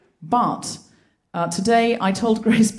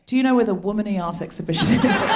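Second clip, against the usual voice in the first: laughing retelling; 2 semitones lower, faster than usual. Retold or imitated. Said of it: "I said to someone".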